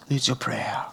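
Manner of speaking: low, whispery solemn plea; hushed appeal. Real, not acted. Pastor asking listeners to pray for the baby, hushed appeal. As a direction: let it sink to a soft near-whisper.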